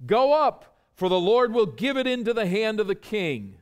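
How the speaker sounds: high, loud and eager, like flatterers cheering; eager loud proclamation. Retold or imitated. Court prophets urging Ahab into battle, loud and eager. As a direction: call it out to please the king.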